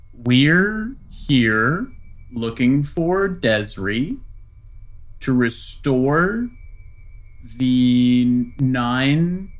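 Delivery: slow, deliberate in-character declaration; lightly acted solemn envoy; measured adventurer in negotiation. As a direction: state the quest with long, weighty pauses. Player speaks as Yevon to demon.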